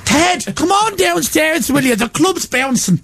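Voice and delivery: high, slow, hammed-up Irish; comic Irish sitcom voice, drawn out; Irish accent. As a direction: call out in a mock Irish accent. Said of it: "That's how Irish people talk".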